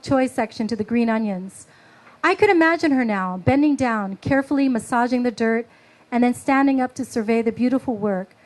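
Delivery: calm reading of a memoir; story narration. A narrator's reading. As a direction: read it like a personal story. Reads her story aloud.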